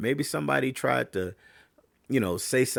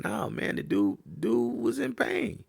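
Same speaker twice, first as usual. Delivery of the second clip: exasperated protest; 13 semitones higher than usual. Real, not acted. Rebutting the pundits.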